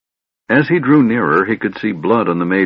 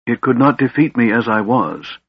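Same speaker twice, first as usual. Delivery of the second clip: bitter; 2 semitones higher than usual. Acted. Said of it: "he said bitterly".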